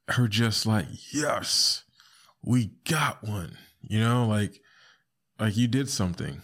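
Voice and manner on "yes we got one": mock gloating. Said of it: "her tonality".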